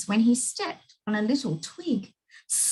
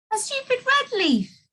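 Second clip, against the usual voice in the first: scornful; 14 semitones higher than usual. A narrator's reading. Scorning the leaf.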